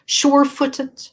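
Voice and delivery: measured verse recital; poem reading. Acted. Poet reads from the wintry poems, measured poem reading. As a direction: announce the title, then give each line room with pauses.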